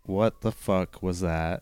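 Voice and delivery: slow, deliberate first haiku line. Pretend. Starting a haiku for his co-host, slow and deliberate. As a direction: weigh each word as you start the poem. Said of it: "Take your time".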